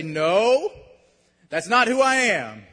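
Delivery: loud, firm rebuttal; defiant refusal. Acted. Believer answering the condemning voice, loud and defiant. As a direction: push back loudly at the accuser.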